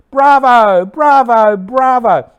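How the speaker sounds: loud, high cheering shouts; shouted bravo. Acted. Shouts over the fallen man as his eyes fix the audience, loud bravo. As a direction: cry it out at full voice, high and drawn out. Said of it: "Shouts of".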